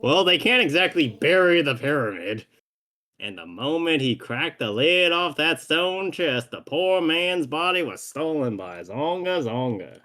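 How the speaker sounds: theatrical cowboy storyteller. Acted. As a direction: spin the tale in a Western accent. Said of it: "the Western accent".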